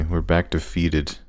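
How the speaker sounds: mock-glum Spanish-free murmur of defeat; deflated. Real, not acted. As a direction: let it sink, dejected. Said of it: "repeat of the line".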